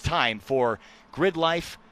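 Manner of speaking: slow, dramatic announcer voice; dramatic show intro. Acted. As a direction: announce the show title slowly. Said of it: "loved your intro".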